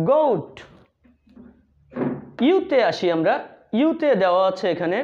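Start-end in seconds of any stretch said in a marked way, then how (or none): 0.1-0.5 "গোট" said with a long o and a silent final e; the right way to say "গোট"; correct pronunciation. Shown as a demonstration. Teacher corrects the class's "গোট" to the long vowel. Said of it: "কিন্তু উচ্চারণ হবে".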